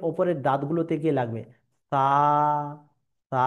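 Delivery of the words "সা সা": সা with the tongue tip at the upper front teeth, no whistle. Shown as a demonstration. Teacher shows the class the letter, সা without any whistle. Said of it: "কোনো সিটি ছাড়া উচ্চারিত হবে".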